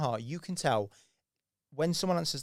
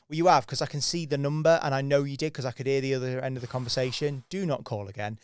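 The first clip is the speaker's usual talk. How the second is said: firm telling-off; 4 dB louder than usual. Retold or imitated. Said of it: "and she went".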